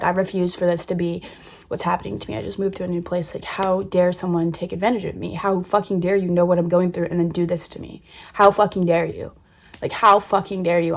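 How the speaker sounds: building from firm to a mild angry yell; hammering the repeated how fucking dare you; retold yelling back. Confronting the person who lied, a mild retold yell. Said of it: "I felt like I was yelling back".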